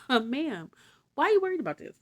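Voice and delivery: high, loud questioning of Martha; Jesus questioning. Acted. Jesus asking Martha why she worries, high questioning voice. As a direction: ask her why she frets.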